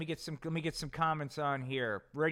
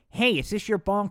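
Seer Stone voice; 6 semitones higher, 7 dB louder than usual. Acted. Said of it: "Seerstone said".

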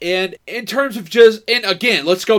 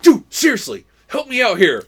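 louder, raised-pitch mock pleading; a touch of pleading exasperation; imitated exasperated plea; 4 semitones higher, 4 dB louder than usual. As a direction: lightly act out an urgent appeal. Acting out film character's urgent plea.

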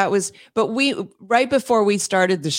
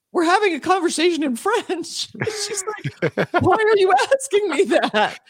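puzzled French woman; 9 semitones higher than usual. Retold or imitated. French woman's puzzled reply retold.

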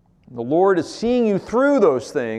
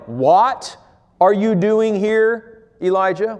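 God's voice asking; 5 semitones higher, 3 dB louder, slower than usual. Acted. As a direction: draw it out like a searching call. Voicing God's question, slowed.

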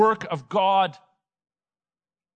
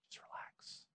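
soft unvoiced hush, just relax; whisper; 29 dB quieter than usual. Preacher hushing a startled congregation, whispering. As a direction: breathe it out to calm the room.

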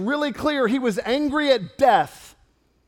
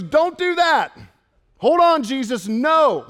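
urgent, higher-pitched objection; Martha; 4 semitones higher, 4 dB louder than usual. Acted. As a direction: protest to stop him, voice lifted. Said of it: "Martha tells him no".

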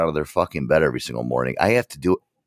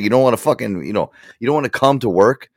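higher, louder imitation of an annoyed boss; mock an exasperated boss; retold scolding; 6 semitones higher, 5 dB louder than usual. Boss berating staff about coming to work, retold scolding.

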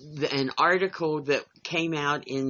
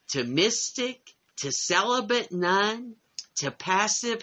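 measured, phrase-by-phrase read-aloud. Real, not acted. Reading a Smithsonian paragraph on Mary Magdalene to the group, measured read-aloud. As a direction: read a written article out to the group, pausing between phrases.

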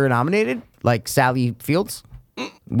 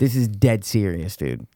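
mock serious; 4 semitones lower, slower than usual. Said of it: "I might be making a funny face".

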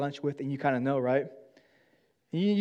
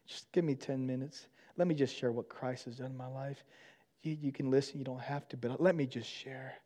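gentle invitation; 7 dB quieter than usual. Retold or imitated. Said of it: "I just have to say".

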